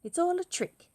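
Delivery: high loud outraged cry; indignant child. Acted. Gruffalo's child realizing it is a trick, high and loud. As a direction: cry out at being fooled.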